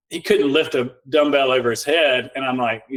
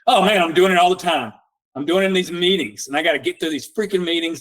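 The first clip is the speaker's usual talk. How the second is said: retold excitement; 3 semitones higher than usual. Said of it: "he's all excited".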